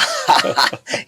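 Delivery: imitated hearty "ha-ha" laugh; Rajinikanth. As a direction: mimic a star's delighted laugh on hearing of the impression. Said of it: "ఆయన దగ్గర work చేసే మనిషి చెప్పడం అలా".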